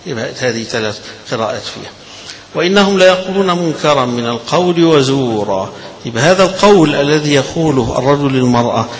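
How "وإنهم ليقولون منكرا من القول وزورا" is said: chanted verse, a little raised; Quran recitation. Shown as a demonstration. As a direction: intone the verse. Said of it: "recites the verse".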